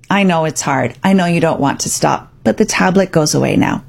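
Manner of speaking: calm alpha parent setting a limit kindly; calm and firm. Shown as a demonstration. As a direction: reassure the child while holding the line. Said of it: "you could calmly say".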